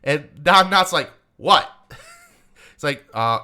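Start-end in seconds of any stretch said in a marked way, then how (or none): 1.4-1.7 shocked what. Retold or imitated. Don Knotts' shocked reaction.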